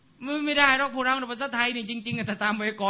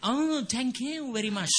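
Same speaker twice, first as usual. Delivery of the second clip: naive thanks; 5 semitones higher, much slower than usual. Retold or imitated. Retold naive student reply.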